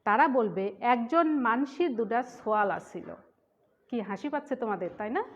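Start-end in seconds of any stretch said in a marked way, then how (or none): 0.8-3.1 light Khulna-Jessore accent, barely acted; Khulna-Jessore dialect. Shown as a demonstration. Teacher shows students the Khulna-Jessore way, light Khulna-Jessore accent. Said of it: "যারা খুলনা যশোরে থাকে তারা কি বলবে".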